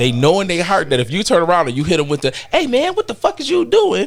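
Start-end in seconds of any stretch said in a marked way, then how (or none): 2.5-4.1 very high, pitched way up, comic delivery. Acting out someone turning around to confront passive-aggressive people, sounding like Katt Williams. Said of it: "You sound like Cat Williams".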